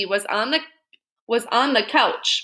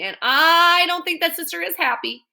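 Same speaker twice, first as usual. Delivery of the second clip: put-on Baby Lincoln voice; 7 semitones higher, 3 dB louder than usual. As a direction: draw it out like a fretful old lady. Baby voiced in read-aloud.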